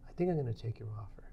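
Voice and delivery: breathy unvoiced whisper, quick; whispered acceptance. Accepting the job offer on the phone, whispered. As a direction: hush it out like you can't believe it.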